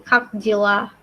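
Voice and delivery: "Kak Jila" said clearly as two words; pronunciation demo. Shown as a demonstration. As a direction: model "Kak Jila" for learners. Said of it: "bacanya jadi".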